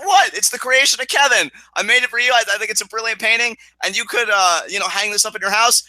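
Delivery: eager, high-pitched mock sales pitch; Chris Jericho. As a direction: imitate a wrestler proudly pushing his gift. Acting out Jericho's eager gift pitch.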